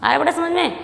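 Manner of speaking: ordinary talk, nothing marked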